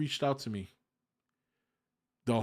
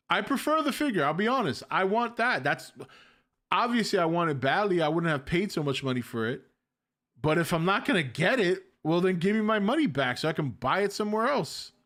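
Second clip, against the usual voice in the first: higher and louder, fired up; worked-up rant; 5 semitones higher, 4 dB louder than usual. Real, not acted. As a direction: push it out, pitch climbing, insistent. Venting about unpaid figure.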